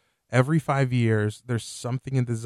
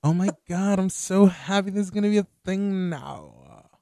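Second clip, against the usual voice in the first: higher, gushing delight; gushing excited; 6 semitones higher than usual. Shown as a demonstration. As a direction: gush it like the happiest fan. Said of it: "I wanted to say it like that".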